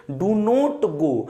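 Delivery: "do not go" said very slowly, each word apart; teacher dictating slowly; slow dictation. Shown as a demonstration.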